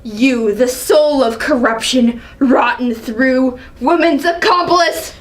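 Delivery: scornful, indignant royal rebuke; a proud ruler scolding a young upstart; angry king. Acted. King berating his son, angry. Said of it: "Seeing the angry side of her".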